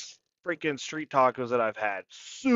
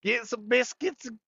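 high, mock British accent; bad British accent; 6 semitones higher than usual. Mocking UK listeners with a bad, high British accent. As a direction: ham up a cheesy British trucker accent. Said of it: "that's worse than your Australian accent".

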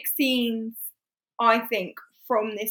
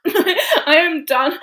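louder, drawn-out fed-up declaration; slow, higher, hammed-up exasperated quitting; mock exasperation; 5 semitones higher, 8 dB louder, much slower than usual. Mr Knightley announcing he is leaving, in mock exasperation.

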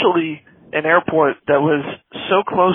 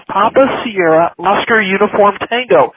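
exasperated spelling-out; 3 semitones higher, 3 dB louder than usual. Retold or imitated. Controller spelling the waypoint for a confused pilot, exasperated. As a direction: spell it deliberately for someone not getting it.

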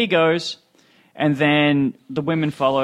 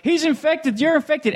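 high, frantic accusing voice; 10 semitones higher, slower than usual. Retold or imitated. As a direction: point the finger shrilly. CEO accusing others.

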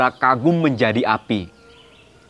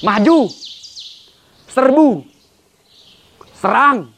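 ringing battle cries, high and loud; rally the troops to charge; booming warrior king; 7 semitones higher, 4 dB louder than usual. Acted. Poem's closing battle cries.

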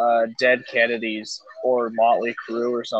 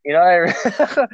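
dying words; 4 semitones higher, 4 dB louder, much slower than usual. Pretend. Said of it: "You sound like a dying elderly man".

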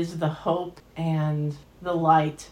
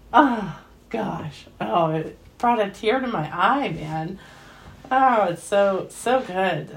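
moved, near tears; 3 semitones higher, 4 dB louder than usual. Real, not acted. Moved by a film scene.

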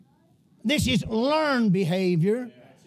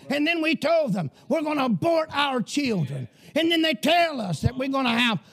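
raised, driving pulpit voice, pressing every line home; fiery preaching; 3 semitones higher than usual. Acted. Pastor warning his church the nation has gone crazy, fiery sermon voice. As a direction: preach it hard to a congregation, full of alarm.

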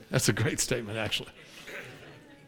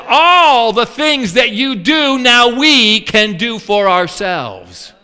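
proud declaration; 4 semitones higher, 5 dB louder, slower than usual. Acted. Israelites declaring independence.

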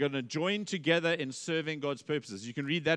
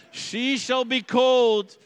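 mock-solemn proclaiming; 9 semitones higher, 9 dB louder, slower than usual. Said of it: "He shouts out".

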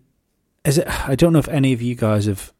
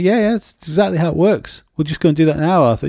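sarcastic dad; 6 semitones higher, faster than usual. Retold or imitated. Dad sarcastically answering son.

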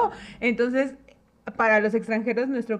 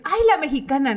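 mock Costa Rican accent, a bit louder; imitating Costa Ricans; 5 semitones higher, 5 dB louder than usual. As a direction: tease like a Costa Rican friend. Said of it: "ahí me decían". (imitando el acento costarricense)

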